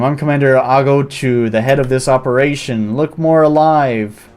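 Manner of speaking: a lightly voiced barking commander addressing recruits; gruff drill commander. Commander welcoming new recruits, lightly gruff. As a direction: play it as a bossy cat commander.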